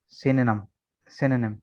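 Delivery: सिनोनिम repeated as se-ne-num with a falling finish; सिनोनिम said carefully, twice; model pronunciation. Shown as a demonstration. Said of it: "असल pronunciation इसकी जो है".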